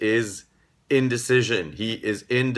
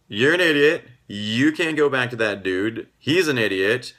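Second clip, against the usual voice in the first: louder, higher scolding of a foolish daughter; exasperated parent telling off their child, raised voice; 3 semitones higher, 5 dB louder than usual. Retold or imitated. Parent scolding an eighteen-year-old daughter over her ex, in a loud exasperated voice. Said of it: "You're gonna say".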